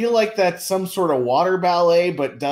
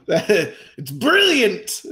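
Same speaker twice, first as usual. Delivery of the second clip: drawn-out sarcastic praise; mock admiration; much slower than usual. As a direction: gush slowly with fake awe. Sarcastic praise of mocked slogan.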